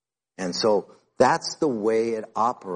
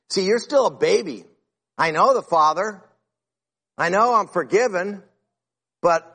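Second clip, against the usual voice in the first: high, pressing retold charge; urgent exhortation; 7 semitones higher than usual. Pastor pressing a churchgoer to grow, high and urgent. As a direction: press him hard to grow up.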